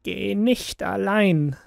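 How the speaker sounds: put-on a hushed, slow warning from the old woman; the stranger warns the child, slow and hushed.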